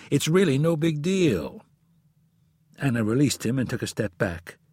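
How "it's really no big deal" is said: higher-pitched, feeble reassurance; lamely placating. A narrator's reading. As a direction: try weakly to calm your wife. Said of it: "said in a lame attempt to calm her".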